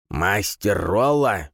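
put-on high, slow, frail old man calling; old man's voice. A narrator's reading. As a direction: call out like an elderly mage. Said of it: "раздался за дверью старческий голос".

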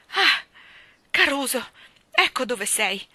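exclaimed cry. Acted. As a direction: call out on spotting the bird. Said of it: "gridò la signorina Andrew".

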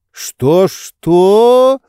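loud, high, indignant challenge; menacing. A narrator's reading. Master lifts head at rude servant, menacing challenge. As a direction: pounce on the insult, loud and high. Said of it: "грозно заговорил Обломов".

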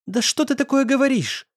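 put-on desperate girl crying out at boyfriend. A narrator's reading. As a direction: burst out, desperate.

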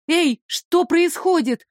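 встревоженно, выше и медленно; резко окликнуть в темноту; тревожный окрик. Acted. Героиня в плену кричит. (встревоженный окрик)

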